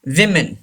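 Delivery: "विमेन" said as wim-en; plural pronunciation. Shown as a demonstration. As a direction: say "विमेन" with a short i first. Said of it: "हम इसे विमेन पढ़ते हैं". ("विमेन", बहुवचन का उच्चारण "वि" से)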